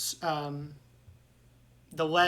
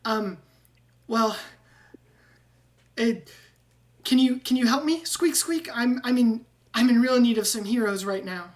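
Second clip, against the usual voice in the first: high, louder squeaky rat pleading for help; squeaky rat man; 7 semitones higher, 8 dB louder than usual. Acted. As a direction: beg the heroes like a desperate rat. GM voicing Ratrick.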